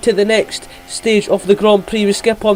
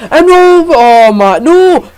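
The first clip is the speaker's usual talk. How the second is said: high, loud panicked "no"; panicked high cries; 4 semitones higher, 5 dB louder, much slower than usual. Real, not acted. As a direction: cry out in real panic as the car gets hit. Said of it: "going high when I was going".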